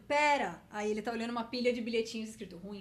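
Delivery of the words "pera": louder, higher cry to wait; busy brain character. Acted. Brain with magnifying glass stops the heart, loud interruption. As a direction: cut in loudly as an absorbed cartoon brain. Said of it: "é um cérebro com uma lupa olhando".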